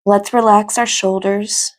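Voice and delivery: calm, measured meditation guidance with long pauses; guided meditation. Acted. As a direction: guide them gently into stillness, leaving space between phrases.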